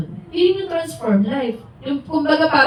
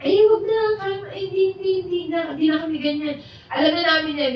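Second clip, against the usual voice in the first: brushing off; 5 semitones higher than usual. Retold or imitated. Former friends refusing to hear the sharing, high and dismissive. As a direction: wave it away like an old friend who doesn't want to hear. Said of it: "mga kaibigan natin dati".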